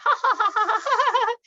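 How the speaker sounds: big, high hearty ha ha ha; belly laugh. Shown as a demonstration. Yoga teacher shows class a belly laugh. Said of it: "just think of laughter".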